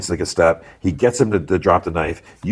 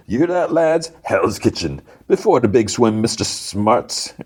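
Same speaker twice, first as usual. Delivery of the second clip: higher jeer, dragged out at the end; jeering gang boss; 5 semitones higher than usual. Retold or imitated. Gang boss mocks the lawyer to his lads, jeering. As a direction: show him up before the gang.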